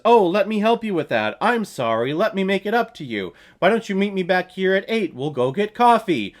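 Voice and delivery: imitating a pushy, eager invitation; mock eager pleading. Man bumping into a woman asks her out, mock eager. Acting out the film's awkward pickup.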